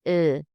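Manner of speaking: Ö said with lips pushed forward. Shown as a demonstration. Teacher showing the umlaut to learners, lips pushed forward. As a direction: pucker up for the vowel "Ö". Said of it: "push your lips forward".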